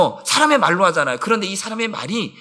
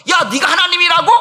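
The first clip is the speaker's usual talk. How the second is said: mocking accusation; 9 semitones higher, 5 dB louder than usual. Pharisees mocking Jesus's claim.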